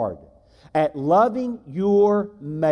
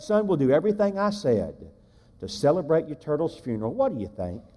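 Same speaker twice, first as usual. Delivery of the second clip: soft coaxing father; 3 semitones lower, 5 dB quieter than usual. Retold or imitated. Dad coaxing son.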